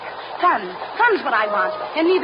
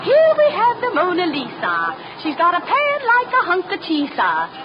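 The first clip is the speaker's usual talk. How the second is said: a hint of a pompous guide, pitched higher; mock tour guide; 5 semitones higher than usual. Girl mocking the guide's talk at the Louvre, light parody. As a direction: ham up the lecturer's patter.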